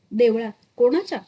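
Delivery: loud, outraged demand; roaring outrage. Acted. Villagers at the chavadi shout down Damu in outrage. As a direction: roar it back in disbelief. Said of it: "सर्व चावडी गर्जून उठली".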